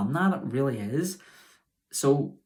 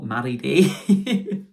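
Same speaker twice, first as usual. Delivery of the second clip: laughing; 2 semitones higher, 7 dB louder, much slower than usual. Real, not acted. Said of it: "sorry, that's my other channel".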